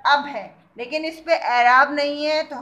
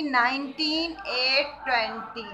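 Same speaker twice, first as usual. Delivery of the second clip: slow dictation; 3 dB quieter than usual. Shown as a demonstration. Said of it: "कौन सी date है आज आपकी?".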